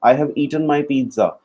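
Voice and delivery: slow, clear model sentence; slow teaching demo. Shown as a demonstration. Teacher modelling the correct sentence, slow. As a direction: lay each word down for the student. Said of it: "पर तेरे को eat नहीं बोलना".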